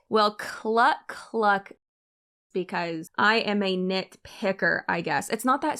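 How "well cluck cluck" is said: playful hen cluck; mock clucking. Answering the hens comment with mock clucks. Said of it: "nitpicking hens".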